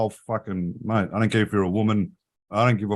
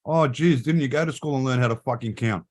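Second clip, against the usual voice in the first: raised-pitch sarcastic rant; mock telling off; 4 semitones higher than usual. Retelling scolding a shopper over item count, sarcastic. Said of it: "So I say to the actual person".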